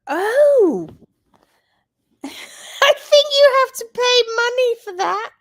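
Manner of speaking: high laughing surprise. Real, not acted. Surprised laugh at super chat.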